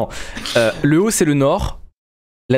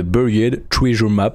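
French speaker's showy English accent; English name in a proudly put-on accent; 3 semitones lower, slower than usual. Shown as a demonstration. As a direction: show off your English accent on the map's name. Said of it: "avec mon petit accent incroyable".

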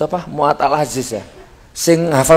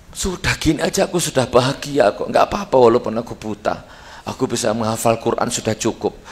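put-on soft boy's voice; 3 semitones lower, 6 dB quieter than usual. Boy's quiet inner words.

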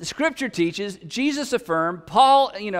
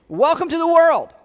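higher and louder, a knowing quip; wry retort; 6 semitones higher, 5 dB louder than usual. Retold or imitated. Paul answering frustrated people, wry and louder. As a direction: toss it off like a wry punchline. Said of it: "Paul says".

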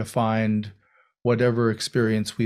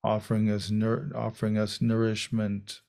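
unhurried meditation guidance with long pauses; guided meditation. Real, not acted. Teacher guiding a group into meditation, calm and unhurried. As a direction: settle into a calm voice, leaving space between phrases.

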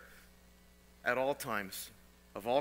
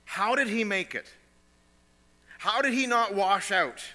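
loud rhetorical question; 6 semitones higher, 6 dB louder than usual. Real, not acted.

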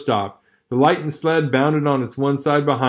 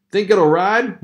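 higher, louder doubtful miner voice; onlooker asking; 6 semitones higher, 4 dB louder, slower than usual. Acted. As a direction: sound the old-timer's doubt. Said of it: "one of the men asked".

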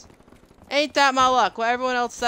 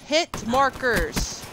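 drawn out slowly; 4 semitones higher, much slower than usual. Real, not acted. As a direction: hit markers stretched very slow.

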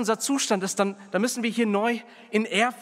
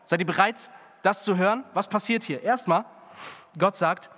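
fervent preaching; 2 semitones higher than usual. Acted. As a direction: preach it out to the congregation. Preaching scripture with fervor.

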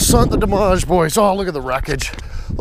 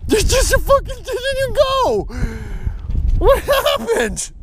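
mock scolding. Scolding the toy tractor.

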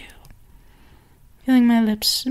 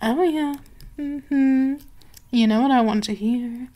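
sultry mistress. Acted. Mistress to her purring pet, sultry and teasing.

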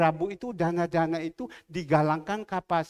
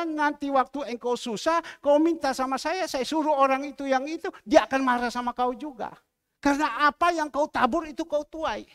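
raised, stern voice of God warning; stern rebuke; 7 semitones higher, 6 dB louder than usual. Retold or imitated. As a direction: rebuke him firmly, building louder. God's voice rebuking in testimony. (teguran keras, suara makin meninggi)

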